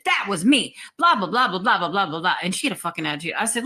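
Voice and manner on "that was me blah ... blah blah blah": mock rattle of blah blah, brushing it off; dismissive blah blah. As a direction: wave off the rest of her words. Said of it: "And she said".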